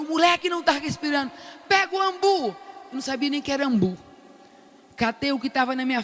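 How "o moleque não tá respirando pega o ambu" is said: fast, pitched-up urgent shout; urgent yell. Retold or imitated. Grandmother to the doctor, fast high urgent yell. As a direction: rush the alarm out, higher. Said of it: "eu gritando".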